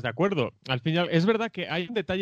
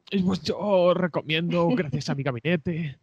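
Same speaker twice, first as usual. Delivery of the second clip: imitación de Donald Trump. Retold or imitated. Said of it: "con esa voz, además".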